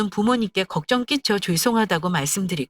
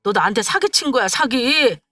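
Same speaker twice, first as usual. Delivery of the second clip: acted angry accusation, pitched up; angry boyfriend; 5 semitones higher than usual. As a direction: lash out like a boyfriend who feels cheated. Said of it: "이제는 화를 내더라고요".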